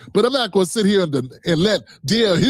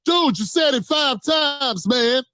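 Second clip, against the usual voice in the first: exasperated; 6 semitones higher, slower than usual. Real, not acted. Interrupting in exasperation.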